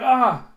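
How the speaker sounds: high, loud sudden yelp; acted pain scream. Ito's arm cracks in the retelling, acted pain cry. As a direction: yelp as if hurt, theatrically.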